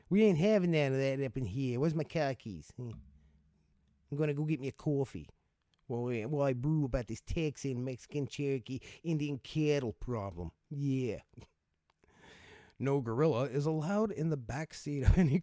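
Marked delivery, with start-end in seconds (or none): 0.1-11.2 Boston guy impression. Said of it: "Is that how it goes?".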